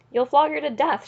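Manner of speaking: alarmed shout from the crowd. A narrator's reading. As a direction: cry out in protest. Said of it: "shouted a third".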